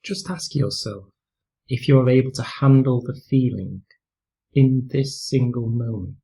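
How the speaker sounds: calm, unhurried meditation voice with long pauses; guided meditation. Real, not acted. Teacher leading listeners through a mindfulness practice, calm guided meditation. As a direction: gently guide them through breathing and body awareness, leaving space between phrases.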